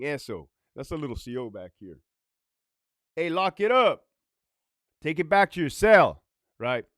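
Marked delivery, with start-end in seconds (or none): 3.1-6.2 raised-voice command; barked guard order. Acted. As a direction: order an inmate back, firmly. Acts out guard ordering inmates.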